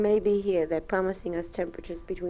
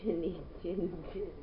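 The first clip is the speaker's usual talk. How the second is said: put-on reading to a toddler; 3 semitones lower, slower than usual. Shown as a demonstration. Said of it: "what does the piggy say?".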